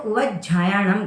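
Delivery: "उवज्जायणम" with a held j released as झ; "उवज्जायणम" said as u-vaj-jhaa-ya-nam; half ja, then jha. Shown as a demonstration. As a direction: close on ज, then a breathy झा in "उवज्जायणम". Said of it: "half ज और उसके बाद झरने वाला".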